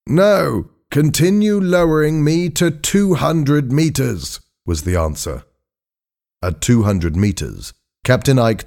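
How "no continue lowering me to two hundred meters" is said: high-pitched, firm instruction; determined diver doctor. A narrator's reading. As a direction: call up an order in a high voice. Voices Doctor Blake.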